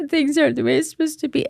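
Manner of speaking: high, whiny moaning voice; mock-whine like you're sick of everything; whiny complaining. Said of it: "complaining or".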